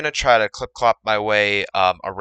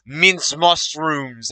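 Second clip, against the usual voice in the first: drawn-out meme quote; 4 semitones higher, much slower than usual. Retold or imitated. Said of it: "She's like".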